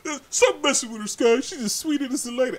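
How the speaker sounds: high-pitched protective pleading; mock scolding fans. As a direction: defend her in a high mock fan voice. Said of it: "I know what you guys think".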